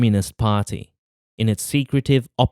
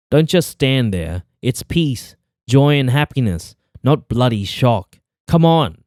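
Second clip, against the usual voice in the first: curt compelling commands; 2 semitones higher than usual. Acted. Followers press bystanders to cheer, curt commanding urging. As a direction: press them hard, snap the last words. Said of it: "Their commands were curt and compelling".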